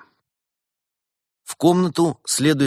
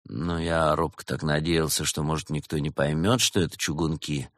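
slightly low, subdued admission; feigned indifference; 4 semitones lower, 4 dB quieter than usual. Acted. Teenager admits knowing the band, feigning indifference. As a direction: own up as if you don't care. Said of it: "Подросток с нарочитым равнодушием".

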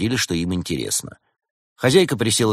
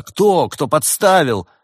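high, loud, urgent questions; voices clamouring; 8 semitones higher, 7 dB louder, slower than usual. Acted. Guests all demand who did the framing, clamouring. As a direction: demand the name, calling out. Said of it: "Со всех сторон раздались голоса".

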